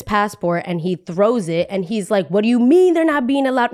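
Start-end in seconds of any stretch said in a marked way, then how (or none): 2.3-3.7 mildly raised, higher-pitched mock outrage; angry grandpa, retold. Grandpa confronting the boarding lady, retold anger. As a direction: imitate an indignant grandpa protesting. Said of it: "gets really angry with the lady".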